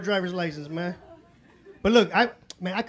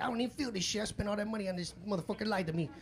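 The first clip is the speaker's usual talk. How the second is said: disappointed grumble; 9 dB quieter than usual. Retold or imitated. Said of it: "I'm like".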